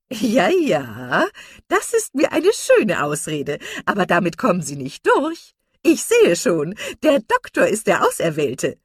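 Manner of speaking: high, loud, knowing tease; teasing matron. A narrator's reading. Mrs Jennings teasing about the bachelor doctor, loud and knowing. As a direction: needle her merrily.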